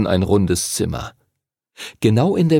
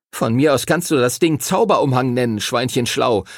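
mild sulky griping, rising at the end; boy refusing to wear a kilt, grumbling; 4 semitones higher than usual. Acted. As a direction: gripe like a stubborn boy. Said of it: "motzte Timothy".

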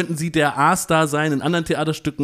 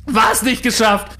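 screaming in a high-pitched fury; berserk rage; 6 semitones higher, 4 dB louder, slower than usual. Acted. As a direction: rant at the staff, loud and high. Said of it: "Zadek bekam einen Tobsuchtsanfall".

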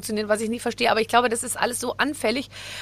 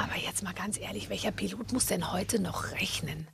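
whispering; 4 semitones lower, 12 dB quieter than usual. Real, not acted. Teasing aside to co-host.

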